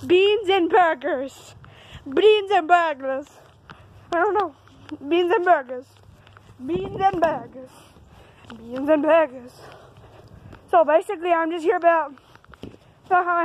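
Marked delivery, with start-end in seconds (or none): 0.1-3.3 famous catchphrase in a put-on accent, drawn out slowly; Bob Martin's accent. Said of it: "accent words". 5.1-9.5 catchphrase in a put-on accent, trying it over; Bob Martin's accent. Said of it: "accent words".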